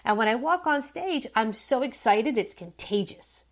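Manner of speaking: quick, bright pep talk to yourself; a comedian pumping herself up, fast and eager; pumped-up excitement. Retold or imitated. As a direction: hype yourself up before going on stage. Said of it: "I pump myself up".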